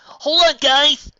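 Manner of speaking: loud, high call; yell. A narrator's reading. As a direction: shout after the running ponies. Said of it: "Spike yelled".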